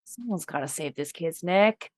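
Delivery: put-on a quiet Southern accent. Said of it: "Are you just Sandy Cheeks?".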